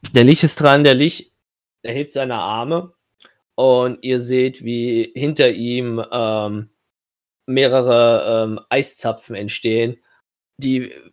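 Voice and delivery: slow, dramatic scene setting; game master narration. Acted. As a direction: narrate the monster's attack slowly. GM narrates the Lich's turn.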